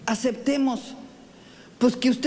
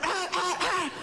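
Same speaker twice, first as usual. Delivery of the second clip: dog barking; 6 semitones higher, 4 dB quieter, slower than usual. Retold or imitated. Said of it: "Empezó a ladrar".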